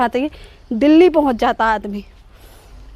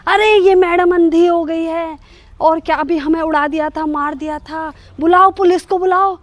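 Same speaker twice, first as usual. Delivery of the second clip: put-on old man's angry shout, higher and louder; 4 semitones higher, 4 dB louder than usual. Old man shouting at the driver to call police, angry. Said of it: "कह रहे".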